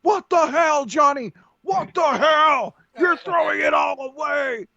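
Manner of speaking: high shouted commentator disbelief; hammed-up announcer yelling; announcer outrage. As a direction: scream at the wrestler from the booth.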